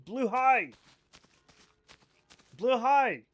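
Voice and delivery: emphatic repeated Blue high. Shown as a demonstration. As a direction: hammer it home. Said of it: "That's what I'm saying".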